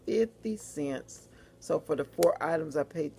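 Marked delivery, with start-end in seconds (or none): 0.1-1.3 Fifty drawn out, slow and savoured; stress on fifty. Real, not acted. Vlogger delighting in the markdown, slow Fifty cents. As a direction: linger on Fifty with relish. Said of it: "That's what made it even better".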